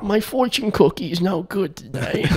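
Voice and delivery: slow, high mock Jewish accent; hammed-up old Jewish accent. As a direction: grumble slowly in a put-on Jewish accent. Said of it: "She's an old Jewish".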